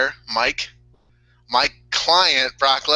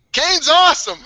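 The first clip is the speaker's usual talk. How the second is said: higher, louder hammed-up cheer; mock cheerful praise; 10 semitones higher, 7 dB louder than usual. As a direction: cheer it like a goofy fan, half laughing. Big Show cheers for Kane.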